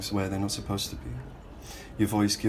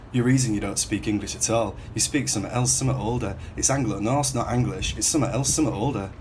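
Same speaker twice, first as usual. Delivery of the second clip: taunting; 2 semitones higher, 4 dB louder than usual. Acted. Teasing about his speech at camp.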